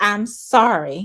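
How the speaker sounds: mock self-satisfied, smug, hollow insincere tone. The speaker retells a boy's apology to the child he hit, imitating a smug tone. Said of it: "in a very smug tone".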